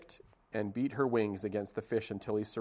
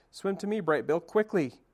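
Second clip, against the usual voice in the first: calling out high and loud across the water; a mother's alarmed call, higher and louder; urgent call; 8 semitones higher, 5 dB louder than usual. Acted. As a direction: shout to your son to hurry. Robot mother calls to endangered son.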